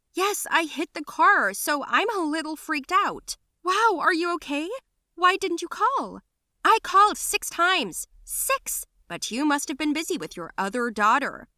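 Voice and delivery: high, loud resentful outburst; bitter angry retort. Acted. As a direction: throw the blame at her.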